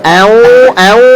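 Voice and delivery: "au" rounded heavily toward an oo; wrong thick nasal. Shown as a demonstration. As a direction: round the hum into a heavy "au".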